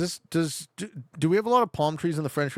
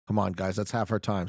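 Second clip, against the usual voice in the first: normal talking voice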